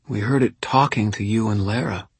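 slurred and sleepy; blurred consonants, drugged; drowsy slurred speech. Acted. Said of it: "consonants in her words had blurred".

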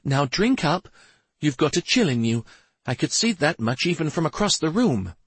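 high, chiming fairy attendant; tinkling fairy voice. A narrator's reading. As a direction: fuss over her in a high fairy chime. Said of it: "in her tinkling chime voice".

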